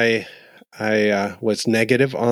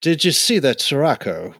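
mock British accent; 4 semitones higher than usual. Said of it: "say it like a British person".

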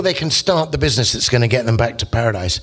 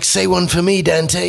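higher, easygoing ask; Belacqua's request; 5 semitones higher, slower than usual. Retold or imitated. Belacqua asks Dante for a prayer, casual and higher. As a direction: casually ask a favour of an old mate. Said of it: "so it's like".

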